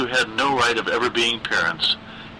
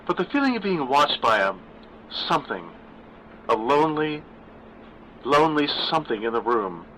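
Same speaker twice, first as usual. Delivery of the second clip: lightly raised voice for the uneasy daughter; a hint of nervous daughter; Gwen's voice; 4 semitones higher than usual. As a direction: voice the worried grown daughter a little higher. Narrator voices daughter Gwen.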